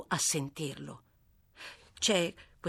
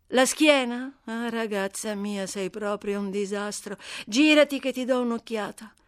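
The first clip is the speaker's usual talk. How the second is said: put-on a louder, higher, brisk voice for the scrappy girl; brash white girl Amy; 3 semitones higher, 4 dB louder than usual. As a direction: bold and cheeky, talking back fast. Amy reacts to the back. (ragazza sfacciata, voce più alta e forte)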